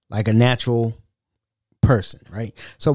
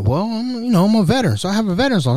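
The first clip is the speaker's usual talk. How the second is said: fake eager voice; 8 semitones higher, faster than usual. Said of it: "they're like".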